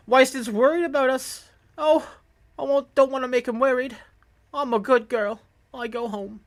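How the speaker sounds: put-on high-pitched child, eager to be good; little girl's voice. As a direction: voice an obedient small girl. Voices a little girl in the game.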